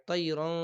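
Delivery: তৈরন pushed through the nose; nasal wrong way. Shown as a demonstration. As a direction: show the wrong গুন্না on তৈরন. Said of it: "এরকম হবে না".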